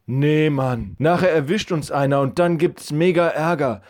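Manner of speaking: put-on nervous boy friend. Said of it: "so rief Levi seinem Freund zu".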